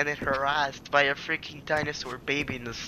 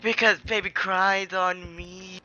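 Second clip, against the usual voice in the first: mock seductive; 2 semitones higher, slower than usual. Joke line repeated slowly.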